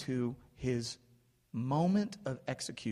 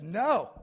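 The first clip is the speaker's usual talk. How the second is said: higher, louder, emphatic no; firm, emphatic denial; emphatic refusal; 8 semitones higher, 6 dB louder than usual. Retold or imitated.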